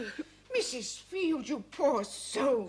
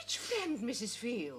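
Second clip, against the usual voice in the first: quiet; 4 semitones lower, 7 dB quieter, slower than usual. Acted. Cautious question to upset woman.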